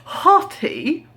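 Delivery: mock shout. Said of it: "I was gonna shout out".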